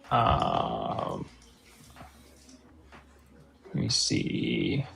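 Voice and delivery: garbled by noise suppression; noise reduction artifacts. Real, not acted. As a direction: voice cut up by noise cancelling. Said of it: "noise suppression is on".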